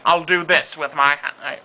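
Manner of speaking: slow, lightly voiced Nigel; drawn-out Nigel Thornberry line; Nigel Thornberry impression. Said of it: "he sounds like this".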